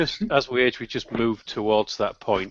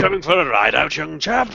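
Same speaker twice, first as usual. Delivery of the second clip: posh Kev impression; 4 semitones higher than usual. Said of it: "it's a bit posh, isn't it".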